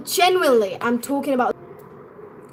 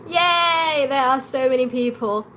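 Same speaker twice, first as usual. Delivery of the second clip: happy cheer. Real, not acted. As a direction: cheer for the viewers who joined. Cheers the many interested viewers.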